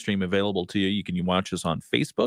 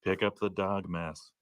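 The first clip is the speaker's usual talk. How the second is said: soft, drawn-out mock whisper; whispering wind; 2 semitones lower, 8 dB quieter, slower than usual. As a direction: whisper chores as if you were the wind. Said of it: "the wind is whispering warm weather or any words".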